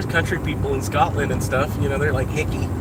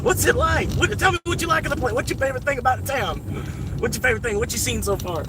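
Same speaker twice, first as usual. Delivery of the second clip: friendly Kentucky local; 11 semitones higher than usual. Retold or imitated. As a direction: ham up an overfriendly hillbilly welcome. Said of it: "and they'll be like".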